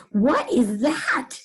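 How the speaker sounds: slow puzzled question with the stress on "What"; a touch of surprise, slowly; surprised. Shown as a demonstration. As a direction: lean on "What" and ask it slowly. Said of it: "Kind of, like, surprised".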